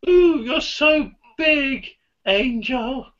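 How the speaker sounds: lightly voiced leprechaun; a hint of a leprechaun lilt. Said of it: "You sound like Leprechaun".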